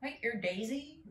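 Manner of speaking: mocking his surprise in English accent; imitating English accent. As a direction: echo him back in a clipped English accent. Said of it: "Your accent".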